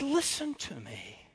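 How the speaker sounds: a hint of a strict old teacher; imitating Miss Kenley. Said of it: "She said".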